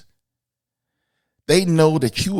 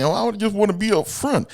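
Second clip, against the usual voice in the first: mock woman's voice; 10 semitones higher, faster than usual. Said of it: "And a lot of you say".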